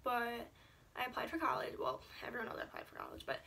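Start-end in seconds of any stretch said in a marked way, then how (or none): 2.2-3.4 breathless, catching air; out of breath. Real, not acted. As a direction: talk while short of breath. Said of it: "sorry, I'm so out of breath".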